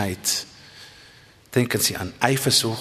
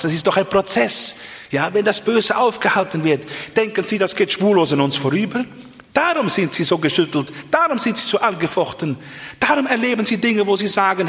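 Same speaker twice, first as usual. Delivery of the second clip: raised-pitch, insistent pulpit delivery; impassioned preaching; 8 semitones higher than usual. Real, not acted. Preacher explains why listeners are so shaken, impassioned preaching. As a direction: press each point home with lifted voice.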